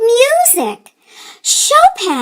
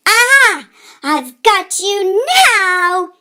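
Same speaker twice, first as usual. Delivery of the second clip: gleeful exclamation; 6 semitones higher, much slower than usual. Acted. Boy catching the mice in the piano, gleeful. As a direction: pounce on it with glee. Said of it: "he exclaimed gleefully".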